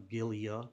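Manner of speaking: Gilia with a hard G; hard G pronunciation. Shown as a demonstration. Car fan repeating the other variant, hard G. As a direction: begin Gilia with G as in give. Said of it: "some pronounce it Gili".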